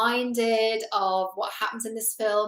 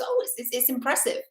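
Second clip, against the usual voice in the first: nervous polite praise; 3 semitones higher than usual. Retold or imitated. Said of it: "laughs nervously and sips his drink".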